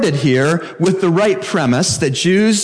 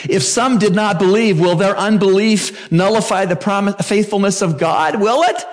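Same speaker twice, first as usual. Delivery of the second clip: rhetorical question; 6 semitones higher than usual. Acted. Preacher voices the rhetorical question.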